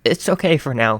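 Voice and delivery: stammering out a nervous reply. A narrator's reading. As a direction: trip over the words, unsure. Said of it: "he stammered".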